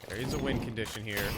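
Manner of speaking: soft, suspenseful live commentary; hushed play-by-play. Real, not acted. Caster watching an angle, hushed play-by-play. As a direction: call it quietly while the play hangs.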